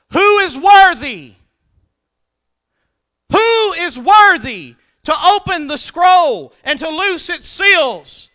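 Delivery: high, loud, slow proclaiming voice; loud proclamation. Acted. Preacher voicing the angel with a loud voice, proclaiming. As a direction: cry it out like the strong angel.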